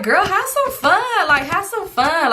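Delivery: high, slow, grinning encouragement; playful laughing urge. Retold or imitated. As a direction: sing it out with a big smile. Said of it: "laughing, biggest smile ever".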